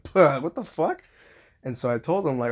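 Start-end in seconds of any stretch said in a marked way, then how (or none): 0.0-1.0 loud, drawn-out gasp, acted out; gasping disbelief. Father baffled by the stranger's response, gasping out loud. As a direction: puff out a gasp, then rise high in slow disbelief. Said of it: "I gasped out loud".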